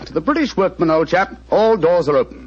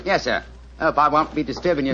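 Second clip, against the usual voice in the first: a lightly voiced humble tradesman; apologetic workman, cap in hand; British workman disguise. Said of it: "a typical example of the British working man".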